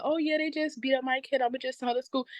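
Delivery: high, dismissive parent voice, pitched well up; mocking careless parent. Panelist mocking parents who shrug off bullying, high and dismissive. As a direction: mimic a shrugging parent who lets it slide.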